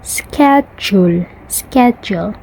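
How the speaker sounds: American "schedule" with a hard k, "sked-jool"; American accent. Shown as a demonstration. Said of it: "but for American".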